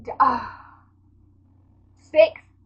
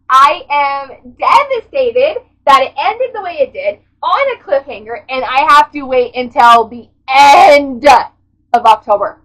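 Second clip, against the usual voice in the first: tearful; 2 semitones higher, 7 dB louder than usual. Real, not acted. Devastated about cliffhanger wait.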